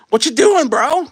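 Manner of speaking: high squeaky mock disbelief; mock incredulous yell. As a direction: call out the buyer in disbelief. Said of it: "I'm just gonna say".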